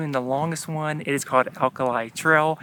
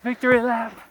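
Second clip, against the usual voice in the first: excited cheer; 9 semitones higher than usual. Real, not acted. Celebrating after climbing dune.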